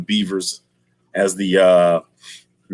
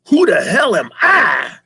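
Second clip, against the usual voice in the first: loud, high indignant yell; mock villain shout; 9 semitones higher, 5 dB louder than usual. Villain answering the dad, mock shout. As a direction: roar it back in outrage.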